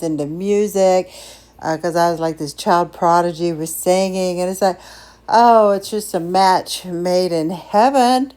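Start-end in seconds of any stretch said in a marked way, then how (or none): 5.3-8.3 slow, lovestruck gushing; swooning over a first love. Retold or imitated. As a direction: draw it out like a besotted teenager.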